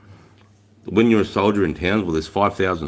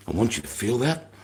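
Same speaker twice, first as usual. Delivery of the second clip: controlled rage; 4 semitones higher, 4 dB quieter than usual. Shown as a demonstration. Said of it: "But you're maintaining that rage".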